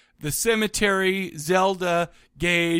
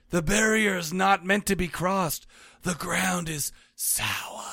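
put-on Northeastern accent; slower than usual. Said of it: "in my best Northeastern accent".

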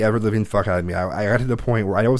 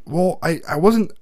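put-on higher, pleading kid's excuse voice; whiny teen excuse; 9 semitones higher, slower than usual. A son excusing himself to his mother, higher and whiny. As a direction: play the defensive teenage son.

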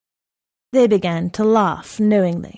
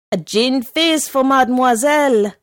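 brighter, louder and higher as it goes; growing enthusiasm; 5 semitones higher, 5 dB louder than usual. A narrator's reading. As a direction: serve it up with rising eagerness. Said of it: "with growing enthusiasm".

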